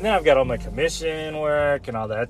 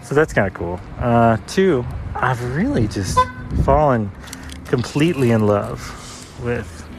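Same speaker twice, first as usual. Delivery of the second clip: muffled through a mask; speaking behind a cloth mask; through a face mask. Real, not acted. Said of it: "recording through the mask".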